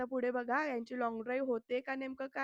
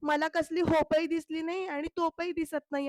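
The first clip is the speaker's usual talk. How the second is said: loud, higher irritated retort; angry snap; 4 semitones higher, 5 dB louder than usual. Retold or imitated. Avani snapping at Raja's cheap advice, angry and loud. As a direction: shut him up sharply, annoyed. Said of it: "Avni चिडून आता म्हणते".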